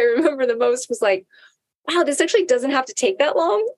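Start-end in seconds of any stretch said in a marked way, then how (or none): 1.9-3.7 laughing. Real, not acted. Laughing at her realization.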